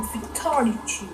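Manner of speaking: slow, drawn-out fighting game announcer; slow mock announcer call; Mortal Kombat announcer. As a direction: boom it like the game voice. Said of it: "j'étais resté dans mon accent".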